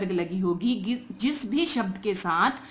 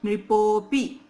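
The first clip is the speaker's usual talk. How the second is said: नृपोपी, नृपो said louder; stress on नृपो; 4 dB louder, much slower than usual. Shown as a demonstration. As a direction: hit नृपो firmly. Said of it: "यहाँ पे जोर देना है हमें".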